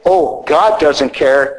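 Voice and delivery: slow, dismissive "Oh, God doesn't care"; mock dismissive excuse. Priest mimicking parishioners brushing off dress rules, slow and dismissive. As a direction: drag it out like a lazy excuse. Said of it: "When they say".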